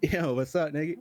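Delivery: casual greeting with "niggy" ending in a light EE; quick demo of a natural delivery; sped up a little. Shown as a demonstration. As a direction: let "niggy" pass without emphasis. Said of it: "speed it up a little bit".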